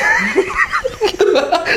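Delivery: high shouted laugh; big laugh. Real, not acted. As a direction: explode into laughter. Laughs at own fear.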